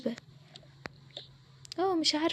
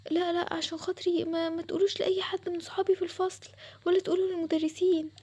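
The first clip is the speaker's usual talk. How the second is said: pleading; 3 semitones higher than usual. Acted. Sara begs them to keep her secret.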